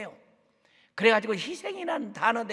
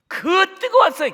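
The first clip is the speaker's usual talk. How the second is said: high, loud and slow; drawn-out fervent shout; fervent cry; 12 semitones higher, 13 dB louder than usual. Real, not acted. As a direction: cry out the fire of revival. Preacher stresses fervent revival.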